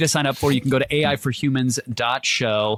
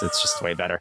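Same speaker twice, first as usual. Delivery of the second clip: mock squeak; 5 dB quieter, faster than usual. Joking concession in squeaky voice.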